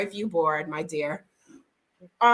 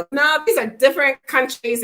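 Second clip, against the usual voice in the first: retold insistence; 6 semitones higher, 6 dB louder than usual.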